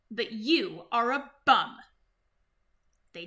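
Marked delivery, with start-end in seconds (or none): 0.1-1.8 blunt put-down. Acted. Final put-down.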